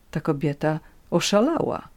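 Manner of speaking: ordinary delivery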